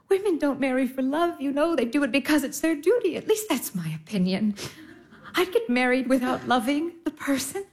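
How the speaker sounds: ordinary talk, nothing marked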